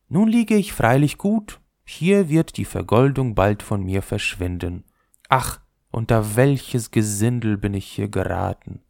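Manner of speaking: the gilded top grumbling in the dustbin; lightly voiced top. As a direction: complain about the riffraff around you. Top lying in rubbish.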